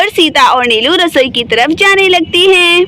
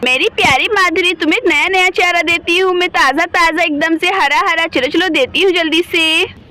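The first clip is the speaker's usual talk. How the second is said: softer, fond cooing to a pet cow; tender coaxing; 5 dB quieter than usual. Acted. Sita sweet-talking Madhuri the cow while promising fodder, softly. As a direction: coax the cow gently with fresh fodder.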